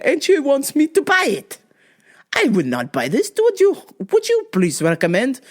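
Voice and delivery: lightly voiced exasperated customer, pitch swinging; mock aggrieved client; complaining customer. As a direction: imitate an indignant customer pleading for advice. Voices a complaining customer in retold exchange.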